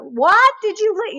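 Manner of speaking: high, drawn-out mock yell. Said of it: "he's getting louder".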